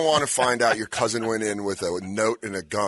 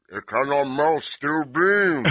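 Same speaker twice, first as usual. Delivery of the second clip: Andre the Giant conspiracy theorist; 3 semitones higher than usual. Retold or imitated. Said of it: "Andre the Giant conspiracy theorist".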